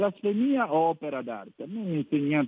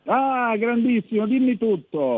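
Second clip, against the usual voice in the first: excited greeting; 7 semitones higher, 5 dB louder than usual. Real, not acted. Host greets caller enthusiastically.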